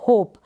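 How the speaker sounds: होप with a lengthened closing प; होप, silent e and a long final प. Shown as a demonstration. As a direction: hold the प at the end of होप. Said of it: "long pronunciation होगा".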